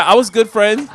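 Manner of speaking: loud, high, word by word; loud choppy reading. Acted. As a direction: sound it out like a beginner. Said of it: "I'm reading like I got hooked on phonics".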